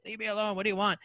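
high-pitched mock kid protest; imitated whiny child. Boy interrupted playing with toys, imitated high whine. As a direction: push back like a bothered child. Child answering yelling mother.

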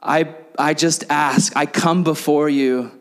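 slow, solemn King James delivery; mock formal prayer to wife. Speaker addressing wife Brooklyn in slow solemn prayer-speak. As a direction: pretend to beseech your wife like royalty. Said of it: "weird religious words with her".

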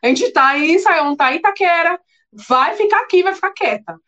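husband desperately pleading with crying wife. Retold or imitated. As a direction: beg her to stay put, growing frantic.

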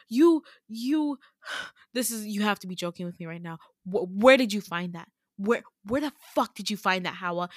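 halting, stunned accusation, retold; incredulous retelling, stressed question words. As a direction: act out someone sputtering in disbelief.

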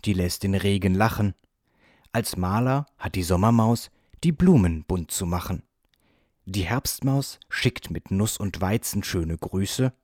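measured recital of a little poem; stage recitation. A narrator's reading. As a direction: recite it verse by verse, as if onstage. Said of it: "sprach er wie von einer Bühne herab".

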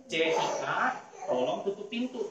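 put-on a kindly put request to a child; good intonation, polite. Shown as a demonstration. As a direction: ask nicely, at an easy level. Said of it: "Kalau kita ngomongnya baik".

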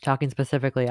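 talking while chewing gum; words round a wad of gum. Real, not acted. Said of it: "I have gum in my mouth".

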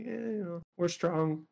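mildly nonchalant shrug in the voice. Acted. Podcaster imitating the Gorons as a race, nonchalant. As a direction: toss it off softly, then evenly. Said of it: "they're, like, nonchalant".

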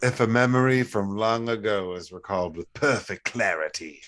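put-on medieval fantasy British; medieval British accent. Co-host reading a riddle back, medieval British accent. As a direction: recite it in a storybook British accent. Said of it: "that's some medieval shit".

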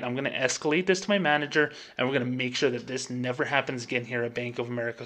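lightly put-on customer service apology; mildly scripted, over-sincere bank rep; fake-sincere phone apology to a customer. Shown as a demonstration. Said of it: "Listen to my bank voice".

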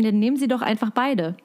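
ruhig zuratende Verkäuferin; Verkäuferstimme. Shown as a demonstration. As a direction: rate der Kundin freundlich zu. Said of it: "das ist meine Verkäuferstimme". (Verkäuferstimme, freundlich beratend)

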